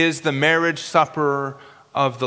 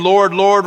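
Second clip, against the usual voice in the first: both words of "Lord, Lord" pressed out louder; emphatic address; 4 dB louder than usual. Shown as a demonstration. Preacher showing the congregation the virgins' emphatic cry. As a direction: lean into each "Lord" of "Lord, Lord". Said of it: "It's an emphatic address".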